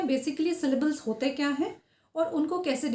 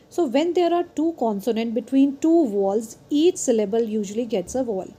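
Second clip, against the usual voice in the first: reads the definition out word by word, slowly; careful, deliberate classroom reading; slow slide reading; 3 dB louder, much slower than usual. Acted. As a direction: dictate it slowly so students can follow.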